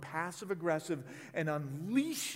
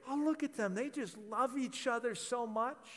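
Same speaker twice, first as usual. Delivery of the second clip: admiring onlookers; 4 semitones higher than usual. Retold or imitated. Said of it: "And everybody would say".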